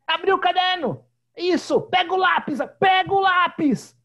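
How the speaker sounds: high and loud, barking orders at the class; a girl playing teacher, shouting at pretend pupils; shouting little teacher. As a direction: yell instructions like a strict teacher. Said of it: "E gritando assim".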